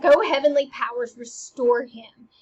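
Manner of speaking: loud plea, slowing at the end; crying out. Acted. Ophelia praying for mad Hamlet, crying out. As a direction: call on the heavens loudly.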